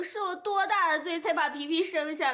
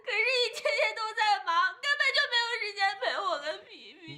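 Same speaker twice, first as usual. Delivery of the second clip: tearful complaint; 5 semitones higher than usual. Acted. Wife complains to husband, weeping.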